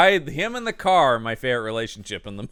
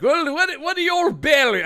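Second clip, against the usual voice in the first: mock kindly adult; 13 semitones higher, 3 dB louder than usual. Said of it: "I did, like".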